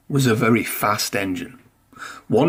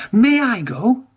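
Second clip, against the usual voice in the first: much higher, pleading and keen; eager plea; 10 semitones higher than usual. A narrator's reading. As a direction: beg like kids desperate to be picked. Engines eagerly begging to go.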